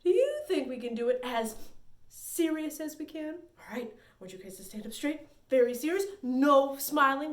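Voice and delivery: ordinary talk, nothing marked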